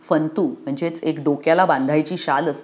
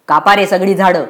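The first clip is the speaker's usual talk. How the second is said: harsh order; 6 dB louder than usual. Acted. Contractor orders cutting.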